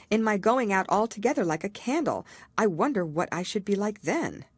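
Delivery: put-on a little girl picturing herself gone like a candle; Alice's voice. Alice wonders aloud to herself, lightly worried girl.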